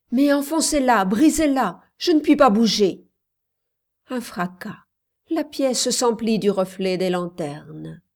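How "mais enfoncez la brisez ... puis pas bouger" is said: urgent, high, loud shouted order; Yuma. A narrator's reading. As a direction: shout to rescuers behind the door. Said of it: "cria Yuma". (cri pressant)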